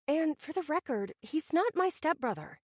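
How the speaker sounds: curt, snippy correction. Acted. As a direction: snap the correction back. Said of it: "I said rather snippily".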